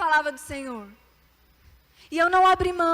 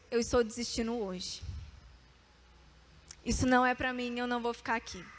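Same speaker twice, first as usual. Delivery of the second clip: oração desanimada, baixa e mais grave; desistência relembrada; 3 semitones lower, 7 dB quieter than usual. Retold or imitated. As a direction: contar baixinho que se rendeu. Relata oração de desistência no banheiro. (desânimo contido, em voz baixa)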